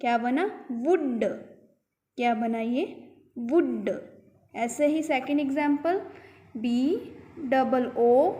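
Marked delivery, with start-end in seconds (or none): 0.7-1.2 "वुड" with brief oo and released d; teacher sounding out short vowel in "वुड". Shown as a demonstration. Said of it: "छोटा ऊ देखो". 3.4-3.9 "वुड" as WUD-duh, short vowel; teacher repeating "वुड" with released d; short OO sound. Shown as a demonstration. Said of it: "छोटा ऊ देखो".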